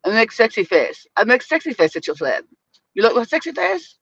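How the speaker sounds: playful mock-sexy Eastern European voice; hammed-up Eastern European flirt; Eastern European accent. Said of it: "use my Eastern European voice".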